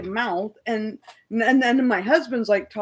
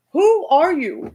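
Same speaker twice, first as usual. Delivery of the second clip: indignant shout; 5 semitones higher, 5 dB louder, slower than usual. Retold or imitated. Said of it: "I'm loud".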